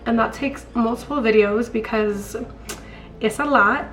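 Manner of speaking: hoarse sick voice; raspy voice from a cold; smoker's rasp. Real, not acted. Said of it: "ignore this smoker's voice. I'm sick".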